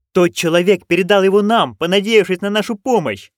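loud, high-pitched cry; exclaiming. Acted. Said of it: "вскричала Маград". (громкий взволнованный возглас)

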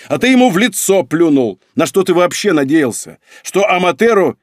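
loud, high-pitched accusation; losing patience. A narrator's reading. Son accusing his father of insulting Amateru, losing patience. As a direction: fire off heated rhetorical questions. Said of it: "не выдержал Нарухито".

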